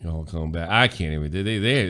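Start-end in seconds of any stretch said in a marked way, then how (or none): 0.0-0.7 attempted Texas accent. Shown as a demonstration. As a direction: have a tentative go at Texan. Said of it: "like, a Texas accent".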